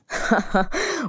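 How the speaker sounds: amused laugh. Acted. Amused after his own quip. (ضحكة خفيفة)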